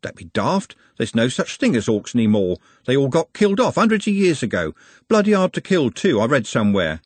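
scoffing butler, rising in pitch as he goes; lightly voiced know-all butler; dismissive butler.

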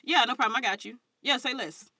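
relaxed African American vernacular; easy casual AAVE, no code switching; african american accent. Retold or imitated.

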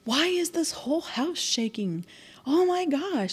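imitating an alarmed aunt calling down the hallway; retold yell. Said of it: "I hear my aunt yell down the hallway".

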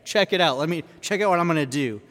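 lightly voiced eager disciple, quick at the end; Peter. Peter calling to Jesus from the boat, lightly acted bold request. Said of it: "Peter's like".

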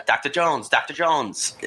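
high-pitched movie kid impression; mock accented film catchphrase; Data from Indiana Jones. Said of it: "the famous Indiana Jones line".

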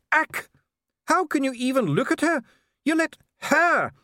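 high, loud, raging voice; furious ranting dwarf. Acted. Dee rants at the king about dwarfs in Ankh-Morpork, high and furious. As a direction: rant with rising disgust.

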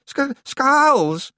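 high, loud stammer through chattering teeth. Acted. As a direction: force the word out, frozen and frightened. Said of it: "she managed".

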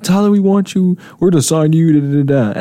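high, lifted mock offer voice; imagined eager recruiters. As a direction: act out a dream job offer. Voices imagined team recruiters in fantasy.

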